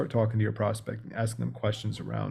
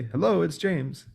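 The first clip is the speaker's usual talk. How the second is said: raised, slow upbeat greeting; matching chirpy hello; 6 semitones higher, slower than usual. Shown as a demonstration. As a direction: mirror their bright tone. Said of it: "then you say".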